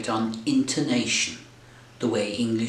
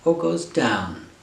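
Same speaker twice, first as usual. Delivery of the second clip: "down" falling from a raised pitch; falling tune; 4 semitones higher than usual. Shown as a demonstration. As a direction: let the voice drop on "down". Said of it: "whether the voice goes".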